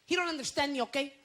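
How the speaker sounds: mock ranting wife on divorce court; woman going off. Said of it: "This woman's going off".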